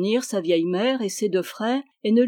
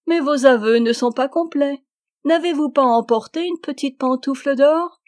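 high, loud, laughing delivery; the princess laughing at the knight's confession; 6 semitones higher, 7 dB louder than usual. A narrator's reading. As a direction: laugh through the words, delighted. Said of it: "La princesse se mit à rire".

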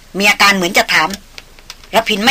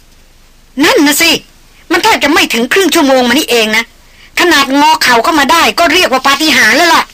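raised, lively woman's voice; lightly higher woman speaking up; 6 semitones higher, 4 dB louder than usual. A narrator's reading. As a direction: voice the young woman chiming in, higher. Female character voice in narration.

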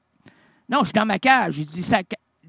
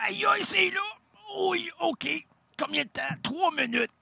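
mock pain yelp; 11 semitones higher, 6 dB quieter than usual. Comic thermometer scene.

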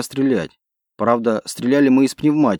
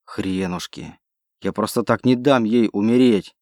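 growled through teeth. Acted. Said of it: "прорычал я сквозь зубы".

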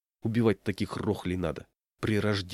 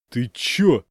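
loud startled blurt; rough surprised outburst; 3 semitones higher, 8 dB louder than usual. A narrator's reading. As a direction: caught off guard, snapping back. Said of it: "удивился".

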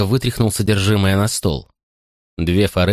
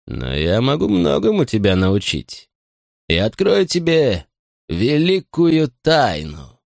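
sinister promise; 3 semitones higher, slower than usual. Acted. Butler's slow rising revelation.

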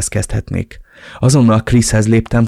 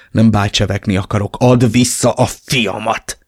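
through gritted teeth. Acted. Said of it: "szűrtem ki a fogaim közt".

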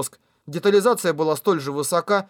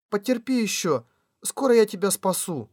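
tender; 3 semitones higher than usual. Acted. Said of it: "Асуна нежно коснулась".

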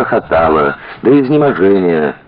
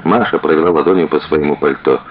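plain reading voice

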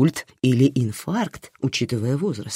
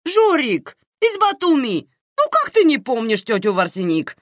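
high, indignant disbelief; how can you forget her; aunt reproaches Karina for forgetting a relative, indignant; 12 semitones higher, 4 dB louder than usual. Acted. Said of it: "возмутилась Наира".

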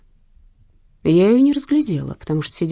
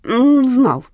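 half-choked wheeze; 5 semitones higher, 7 dB louder than usual. A narrator's reading. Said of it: "полузадушенно прохрипел тот".

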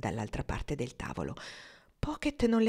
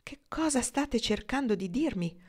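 higher, wondering question; full of wonder; 6 semitones higher than usual. Acted. Marnie asks Pocket what he means, full of wonder. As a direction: ask it amazed, hardly believing. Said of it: "con voce piena di meraviglia".

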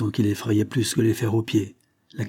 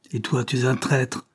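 exclaiming; 3 semitones higher than usual. Acted. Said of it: "s'écria le forçat".

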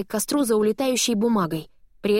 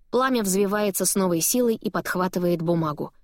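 plain reading voice

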